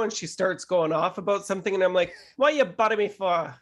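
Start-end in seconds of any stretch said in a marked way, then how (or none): 2.4-3.5 a light Jamaican patois retort; mild Jamaican patois. Retold or imitated. Retelling his reply to the aunt, mild Jamaican patois.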